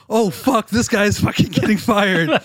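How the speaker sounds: high, half-sung oh no, this guy's done; sing-song alarm, as if watching a car crash; mock dread. Recalling the sound guy grilled by a singer, high sing-song mock dread.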